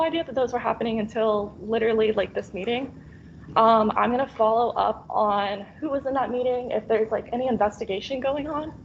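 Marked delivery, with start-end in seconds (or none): 3.6-8.7 shaky voice. Real, not acted. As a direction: voice trembling with nerves, really shaking. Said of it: "my voice is shaking".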